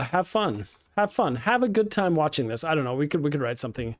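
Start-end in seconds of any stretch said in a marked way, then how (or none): 0.0-0.7 type-along robot voice. Pretend. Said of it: "you have to talk like a robot".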